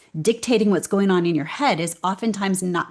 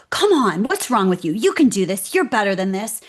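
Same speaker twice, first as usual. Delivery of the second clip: a mild mock yell, louder, pushing herself hard; tough girl voice; 4 dB louder than usual. Scolding her own scared self, mock tough girl yell. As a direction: bark at yourself like a tough coach. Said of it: "tough girl voice where I'd kinda yell at myself".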